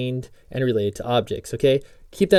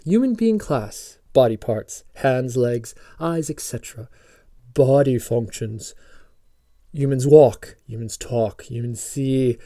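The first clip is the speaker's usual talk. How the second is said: fake British accent; slower than usual. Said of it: "Fake British accent".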